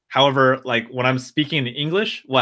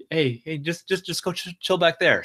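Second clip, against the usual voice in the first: gently, with love; 5 semitones higher than usual. Retold or imitated. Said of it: "with love".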